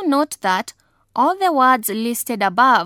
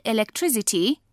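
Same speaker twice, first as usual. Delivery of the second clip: elec-TRIC-ity, weight on "tric"; third-syllable stress; 4 dB quieter, faster than usual. Shown as a demonstration. Teacher giving electricity as an example, third-syllable stress. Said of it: "stress is placed on the third syllable".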